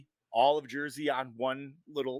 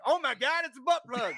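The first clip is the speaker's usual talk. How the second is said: surprised; 9 semitones higher than usual. Retold or imitated. Retold discovery of object.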